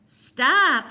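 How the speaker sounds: high, loud pained cry; gasped plea. A narrator's reading. Cole crying out while being kicked, high pained plea. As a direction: cry out under the blows. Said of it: "Cole gasped".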